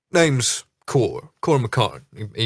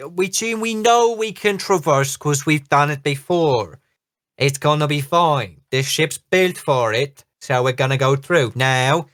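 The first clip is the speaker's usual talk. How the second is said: high hearty captain; 4 semitones higher than usual. Acted. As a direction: reassure the crew with a hammy captain voice. Captain reassuring the crew.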